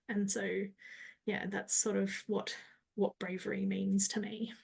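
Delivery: trailing off into a whisper. Real, not acted. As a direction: drop to a breathy whisper, nearly unvoiced. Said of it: "drops to whisper".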